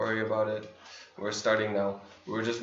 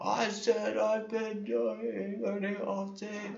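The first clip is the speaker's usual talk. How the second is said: put-on shrill yelling, very high-pitched, all-out loud; 10 semitones higher, 5 dB quieter than usual. Reading aloud a viewer's all-caps chat comment: imitating a viewer yelling. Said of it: "you're yelling at me like this".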